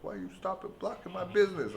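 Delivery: very high imitation of the angry lady; mock angry vendor. Coconut lady scolding the tourists, high-pitched imitation. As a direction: squeal out her complaint.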